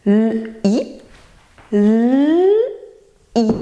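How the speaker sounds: L and I detached, the L held long; robot talk. Shown as a demonstration. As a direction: hum out L, pause, then a separate I. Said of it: "la redit en langage robot".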